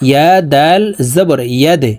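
ইয়াদে spelt out, the d pushed into a bounce; qalqalah. Shown as a demonstration. Teacher spells ইয়াদে for learners, bouncing the final d. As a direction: release the d of ইয়াদে with a push. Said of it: "ধাক্কা দিয়ে উচ্চারণ করব".

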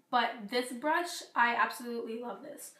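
a bit hoarse, losing voice; hoarse, voice starting to go. Real, not acted. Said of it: "I'm losing my voice".

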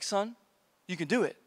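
soft, reassuring pastor; mildly hushed, fatherly pep talk; gentle encouragement. Retold or imitated. Pastor gently encourages nervous kid.

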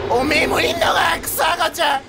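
real startled shout. Real, not acted. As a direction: yell in dismayed surprise. Spots the monster baby.

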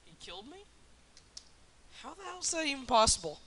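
loud indignant yelp of disbelief; outraged disbelief. Real, not acted. Killed unexpectedly in game.

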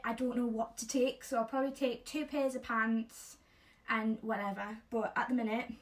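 talking around teeth whitening strips. Real, not acted. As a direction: speak with strips on your teeth. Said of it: "why I'm speaking a bit weird".

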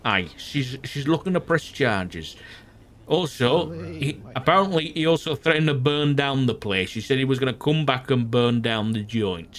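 put-on Yorkshire accent with a touch of Geordie; casual Northern English brogue. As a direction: play it as a Northern UK local.

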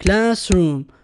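classroom said in two beats, class-room; two clapped syllables. Shown as a demonstration. Teacher claps classroom in two beats for the pupils. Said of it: "نصفق صفقتين".

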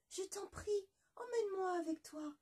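high, crying plea; tearful pleading. Acted. La rivière supplie en pleurant la moitié de poulet. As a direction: beg with a catch in the voice.

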